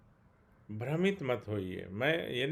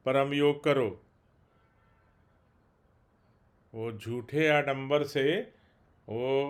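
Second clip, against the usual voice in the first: heated, louder admonishing of followers; emotional stern protest; 5 dB louder than usual. Real, not acted. Preacher protesting against false parent figures, stern and emotional. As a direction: scold them with real feeling, hitting key words hard. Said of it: "मैं थोड़ा भावुक हो गया और थोड़े कड़े शब्दों में".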